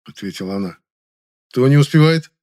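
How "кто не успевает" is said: louder, astonished question; surprised question. A narrator's reading. Hero questioning the supervisor, surprised and louder. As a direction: ask it in genuine disbelief. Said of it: "удивился я".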